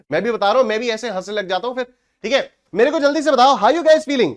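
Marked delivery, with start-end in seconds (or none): 2.7-4.3 excited. Real, not acted. Hyping up the live class.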